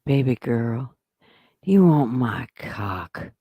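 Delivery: slow, low, seductive delivery; a mock seductive line slowed right down. Shown as a demonstration. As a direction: purr it out slowly like a smooth talker. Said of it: "You gotta say it like this".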